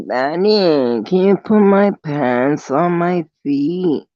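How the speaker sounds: put-on slow, babyish plea; a hint of a whiny baby. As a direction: ask like a little girl to her daddy. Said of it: "I act like a little, little baby".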